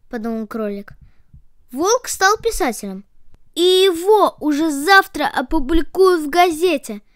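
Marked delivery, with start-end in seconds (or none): 1.7-7.0 rabbit voice. A narrator's reading.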